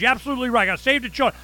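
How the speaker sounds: high, loud, over-eager sarcastic agreement; hammed-up mock zeal. Owner parroting the inspectors to trap them, loud mock zeal. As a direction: overplay the righteous citizen. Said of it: "I'm going".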